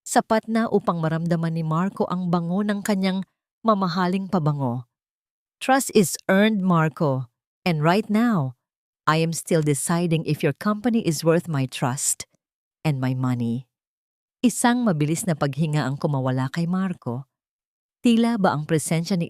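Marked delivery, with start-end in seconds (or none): 5.6-13.7 lightly voiced cool businesswoman; commanding heiress. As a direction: lay down the terms, unhurried. Isabela asserts control.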